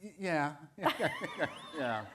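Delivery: breathy laughing agreement; laughing yeah. Real, not acted. Author agreeing with the host's pressure remark, laughing.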